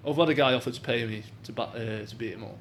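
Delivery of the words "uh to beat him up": ordinary talk, nothing marked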